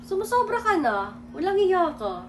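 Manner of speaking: soft, understated sarcasm; mild mock-sarcastic taunt. Shown as a demonstration. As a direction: toss it off quietly as a dig.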